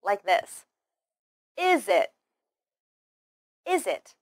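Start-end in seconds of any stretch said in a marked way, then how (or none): 1.6-2.1 "Is it" run together as iz-it; no gap between "Is" and "it"; linked Z sound. Shown as a demonstration. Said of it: "link the final z sound of is". 3.7-4.1 "Is it" run together as iz-it; no gap between "Is" and "it"; linked Z sound. Shown as a demonstration. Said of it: "link the final z sound of is".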